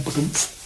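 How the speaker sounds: soft spoken "ba-dumph" sound effect; imitated thud. Shown as a demonstration. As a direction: mimic a soft, sudden drop. Imitates someone vanishing on becoming Buddha.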